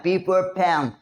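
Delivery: "pan" begun with a breathy p; aspirated P demo. Shown as a demonstration. Teacher repeating the P sound, "pan" aspirated. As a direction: let air burst out on the p of "pan". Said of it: "पी को कैसे pronounce करना है".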